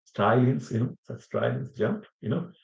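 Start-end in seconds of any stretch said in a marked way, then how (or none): 0.1-0.7 Aussie "Australians", clipped to "Strylians"; Australian accent. Shown as a demonstration. Teacher repeating the Aussie way for students, Australian accent. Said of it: "that's very typical Aussie". 1.1-2.1 softer Aussie demo, "Australians" as "Austrylians"; Australian accent. Shown as a demonstration. Teacher showing what is typical Aussie, Australian accent. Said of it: "that's very typical Aussie".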